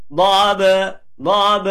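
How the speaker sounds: "Dhab" with a small bounce on the final b; light qalqalah. Shown as a demonstration. Teacher demonstrating qalqalah sugra, bounced b in "dhab". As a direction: say "dhab" high, releasing the b lightly. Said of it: "itu qalqalah sugro".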